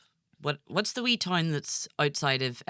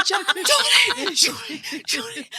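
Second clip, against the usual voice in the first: higher, urgent calls across desks; hushed urgent calling; 8 dB louder than usual. Retold or imitated. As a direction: call him from across the room.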